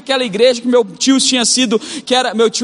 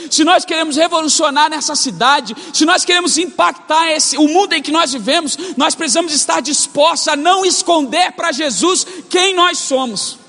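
building sermon; 2 semitones higher than usual. Acted. Pastor urging the congregation to stop hiding from Jesus, building fervour. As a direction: preach it with growing fervour. Preaching climax.

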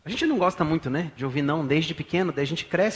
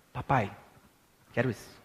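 put-on childlike plea; 5 semitones lower, 4 dB quieter than usual. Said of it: "como uma criança de três anos".

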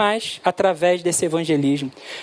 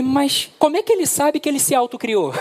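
higher-pitched questioning, a hint of a young son; lightly mimicked curious kid; lightly voiced child; 7 semitones higher than usual. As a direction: imitate a puzzled child pressing the question.

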